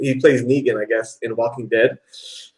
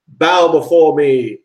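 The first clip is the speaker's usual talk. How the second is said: slow, loud commanding villain; dark lord; 4 semitones higher, 5 dB louder, slower than usual. Retold or imitated. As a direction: boom it out like a tyrant. Quoting Zod's line.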